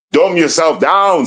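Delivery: slow it right down so it sinks in. Shown as a demonstration. Host slowing down his own rant for viewers, deliberately slow. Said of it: "Slow down".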